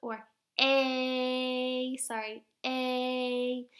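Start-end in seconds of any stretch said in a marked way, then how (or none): 2.6-3.7 "A" held long as a level "ay"; stretched long A. Shown as a demonstration. Teacher shows the long A sound, stretched out. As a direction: draw "A" out slowly, like ayyy. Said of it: "we would stretch it out".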